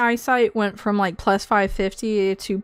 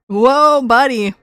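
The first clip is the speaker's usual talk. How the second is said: imitating a catchphrase; 6 dB louder, slower than usual. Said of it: "I can't say it like he does".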